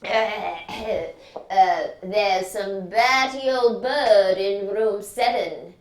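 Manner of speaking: drawn-out impatience from a lightly voiced consultant; Mister Jessup Brown. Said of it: "said Mister Jessup Brown".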